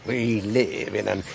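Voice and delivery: mocking Marlborough drawl; lightly mimicked Marlborough accent. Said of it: "he drawled in his best Marlborough accent".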